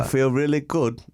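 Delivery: put-on playful Australian accent. Answering the co-host's how-are-you, Australian accent. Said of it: "you're doing the Australian".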